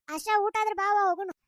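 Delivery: calling out. Acted. Woman calling Asha to leave after the meal, calling out.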